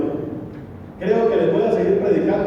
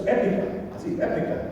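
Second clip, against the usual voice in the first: breathy whisper of the word épica; whispered aside; 2 semitones higher, 5 dB quieter than usual. Real, not acted. Preacher whispers the young people's word épica. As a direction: lean in and whisper it like youth slang.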